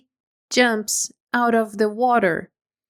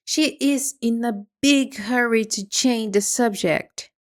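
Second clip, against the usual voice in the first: ordinary delivery, nothing marked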